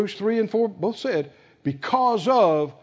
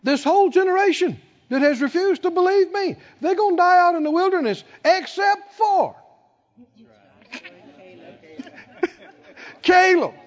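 God declaring the verdict; divine pronouncement; 10 semitones higher than usual. Retold or imitated. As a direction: pronounce judgment then chuckle at Caleb. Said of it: "And the Lord said".

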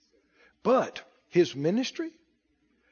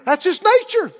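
preaching climax; 9 semitones higher, 9 dB louder than usual. Acted. Preacher proclaiming God's nature, full force. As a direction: lift it to the rafters.

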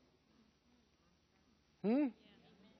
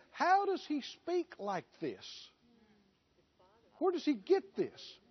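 higher, incredulous scoffing at the upstart; mocking religious leaders; 5 semitones higher than usual. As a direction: scoff like the doubting scholars. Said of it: "and they said".

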